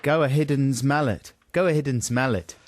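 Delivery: put-on South African accent. Co-host tests the coach's trick, South African accent. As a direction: run the words together, South African accent. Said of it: "in a South African accent".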